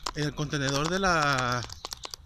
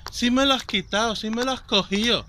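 higher-pitched imitation of an indignant elderly woman; insisting old lady; 7 semitones higher, 4 dB louder than usual. Old lady accusing the volunteer of taking her jar, imitated indignant protest.

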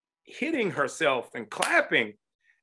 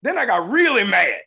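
louder, higher outburst; half-joking angry shout; mock angry shout; 5 semitones higher, 8 dB louder than usual. Real, not acted. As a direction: blurt out the anger. Angry punchline of the story.

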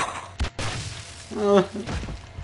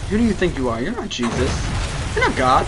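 taunting yell; 7 semitones higher, 4 dB louder than usual. Real, not acted. Yelling at boss.

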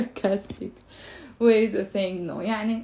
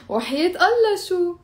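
higher, teasing rise on Allah شو; sarcastic question; 7 semitones higher than usual. Shown as a demonstration. Teacher shows students a mocking never. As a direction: ask it mockingly, as if no way. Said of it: "Or you can even say وحياة Allah شو".

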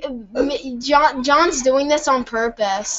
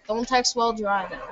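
soft, hurried mock warning; quick quiet aside; 9 dB quieter, faster than usual. Player repeating the safety warning, quick quiet aside.

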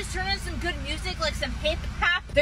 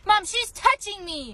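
whiny tattling little sibling; 4 semitones higher than usual. Acted. Tattling to mom.

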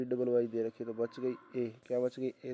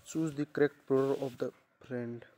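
each word read out slowly and clearly; slow dictation; 3 dB louder, much slower than usual. Shown as a demonstration. Teacher reading the question slowly to the class.

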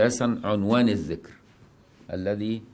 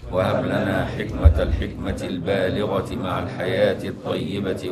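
slow, chanted supplication over music; devotional prayer recitation; 3 dB louder, slower than usual. Acted. Teacher reciting the Shadhili prayer to students, chanted and solemn. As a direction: intone the prayer like a devout reader.

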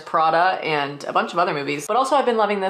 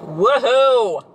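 cheering woohoo; 6 semitones higher, 5 dB louder than usual. Real, not acted. Excited about Saturday class.

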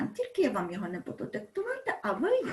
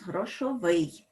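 грошовий stressed on the last syllable, -ВИЙ; stress on final syllable; 2 semitones lower, slower than usual. Shown as a demonstration. Teacher showing where stress falls in грошовий, final syllable stressed. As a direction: put the stress at the end of грошовий. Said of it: "у нас наголос".

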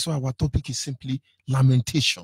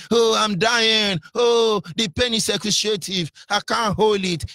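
mock shouting white man; 5 semitones higher than usual. Preacher mocks a patient moaning over a scratch, wailing high. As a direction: ham up the dying patient's wailing. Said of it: "The Oyibo man was shouting".

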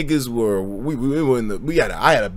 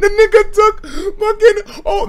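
laughing, slow and high; 4 dB louder, slower than usual. Real, not acted. Laughing telling the story.

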